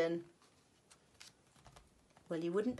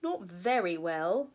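yawning; 6 dB louder than usual. Acted. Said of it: "yawned Mister Bear".

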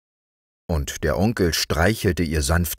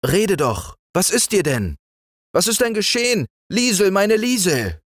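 higher, pressing and anxious; worried. Acted. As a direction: urge her to speak, growing concerned. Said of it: "redete der Onkel besorgt auf sie ein".

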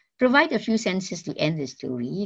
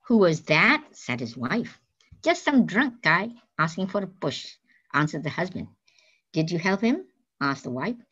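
slow, deliberate read-aloud to the class; story reading; much slower than usual. A narrator's reading. Teacher reading a story to the class, slow storytelling. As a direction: read the story slowly so students follow.

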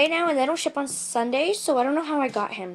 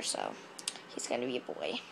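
low voice; 12 semitones lower, 12 dB quieter than usual. Pretend. Low silly voice.

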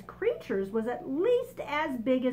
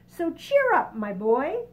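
high, loud hearty cheer up; cheery centipede; 6 semitones higher, 8 dB louder than usual. Acted. Centipede cheers up the boy, high and loud. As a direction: boom it out with good cheer. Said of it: "the centipede said".

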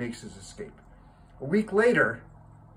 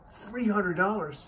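high, drawn-out echo of disbelief; incredulous; 7 semitones higher, slower than usual. Acted. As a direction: balk at the price, slow and high. Man balks at boy's price.

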